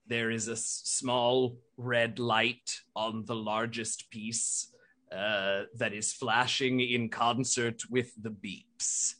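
a hint of a careful robot butler; Bertrand voice. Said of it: "Bertrand comes on and says".

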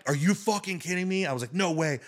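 high-pitched, incredulous reaction; retold disbelief. Storyteller replays his reaction to the reveal, incredulous. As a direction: act out your stunned disbelief, pitch up.

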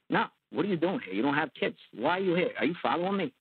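a mobster caught off guard, pushing back; defensive. Retold or imitated. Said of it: "he just went completely, like, defensive".

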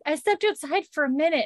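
high-pitched frantic explaining; mock freaking out. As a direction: imitate a mother in a panic. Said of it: "freaking out".

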